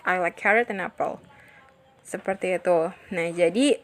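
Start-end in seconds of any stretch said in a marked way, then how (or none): 0.1-1.2 quick, weight on "carrot" and "apple", "and" swallowed; stress on carrot, apple. Shown as a demonstration. Teacher showing which words are stressed, weight on "carrot" and "apple". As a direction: hit "carrot" and "apple", skim over "and". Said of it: "Yang ditekan itu adalah carrot, apple".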